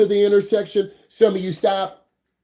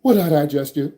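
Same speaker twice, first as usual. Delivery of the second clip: shocked; 4 semitones lower than usual. Retold or imitated. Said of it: "I'm like".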